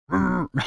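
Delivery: short high-pitched laugh. Real, not acted. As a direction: let out a brief high laugh. Reacting to the dog in clip.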